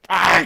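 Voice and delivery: a brief "ah" as a charging monkey; mock monkey scream. Imitating monkeys charging in rage.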